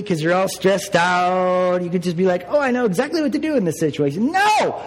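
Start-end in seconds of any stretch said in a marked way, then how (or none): 2.5-4.3 mock confident. 4.3-4.8 emphatic no. Real, not acted. Pastor rebuts the mock quote.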